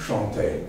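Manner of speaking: Chanter opening with a soft sh; French pronunciation. Shown as a demonstration. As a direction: say Chanter as shon-TAY. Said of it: "in French".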